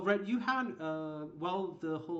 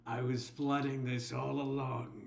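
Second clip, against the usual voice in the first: slow, loud mock cry of betrayal; hammed-up betrayal, then villain reveal; betrayed hero; 6 dB louder, slower than usual. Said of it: "the party's favorite NPC is suddenly the evil bad guy".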